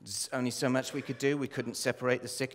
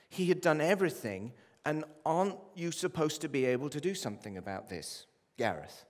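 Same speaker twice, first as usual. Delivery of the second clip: father's anger; 5 semitones higher, 4 dB louder than usual. Retold or imitated. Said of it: "father's accusing words voiced".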